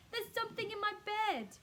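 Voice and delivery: put-on high, loud frightened old woman; panicked Mrs Twit. A narrator's reading. Mrs Twit panics about something in her bed, high and loud. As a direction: cry it out in a panic.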